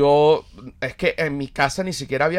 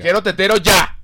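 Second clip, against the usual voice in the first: put-on louder, higher hysterical toddler demand; hysterical baby; 6 semitones higher, 6 dB louder than usual. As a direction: demand it in a tantrum. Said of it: "histérico". (bebé histérico exigiendo el tetero)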